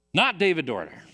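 lightly voiced announcer reading a result; an understated mock announcement. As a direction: call it out like a mild emcee. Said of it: "It's not what they said".

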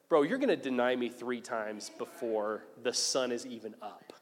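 low, frank word to a friend; leveling with him. Acted. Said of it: "levels with him and says".

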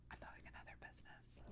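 soft secretive whisper. Real, not acted. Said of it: "I have to whisper it".

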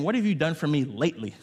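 a hint of the bitter son; older son complaining to father, mild indignation; resentful older brother. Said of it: "It's as if he's saying".

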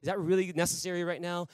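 very soft, grudging doubts muttered under breath; reluctant mutter. Retold or imitated. Drummer grumbling to himself about praying now, very soft. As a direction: mutter the objection so nobody hears. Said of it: "I was like".

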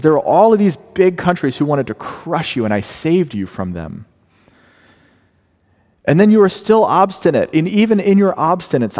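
emphatic, rising on obstinate; insistent God. Retold or imitated. Preacher voicing God insisting on his loyalty. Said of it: "God insists".

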